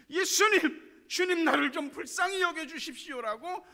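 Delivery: loud high shout to Jesus; preacher shouting a beggar's plea; shouted cry. Shown as a demonstration. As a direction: cry out with all your strength. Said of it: "더욱더 악을 쓰고 소리 질러야 됩니다".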